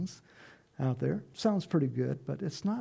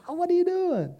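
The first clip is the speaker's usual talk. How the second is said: much higher, loud laughing jeer; mocking jeer; 10 semitones higher, 9 dB louder than usual. Mocking crowd shouts at Noah building the ark, laughing. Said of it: "were laughing at Noah, going".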